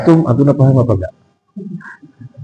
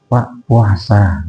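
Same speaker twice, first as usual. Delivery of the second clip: gentle reminder; 2 semitones lower, much slower than usual. Acted. Models servant's gentle reminder to boss.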